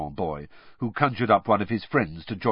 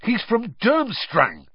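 slow, higher, spitting the words; spat out; 12 semitones higher, 4 dB louder, slower than usual. A narrator's reading. Ron accusing Hermione about her date, spat out. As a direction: spit it out with contempt. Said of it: "spat Ron".

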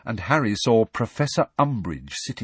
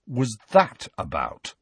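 slowly; 2 semitones higher than usual. Acted. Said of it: "said Ron slowly".

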